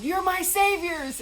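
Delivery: high, loud, slow joyful yell. Retold or imitated. Boris greets the couple who saved him, a high loud slow yell. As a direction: call it out across the hall with delight. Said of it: "he just kind of yelled".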